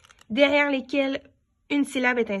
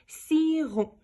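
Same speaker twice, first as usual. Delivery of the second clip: sounded out; 6 semitones higher than usual. Shown as a demonstration. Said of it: "j'entends le ro".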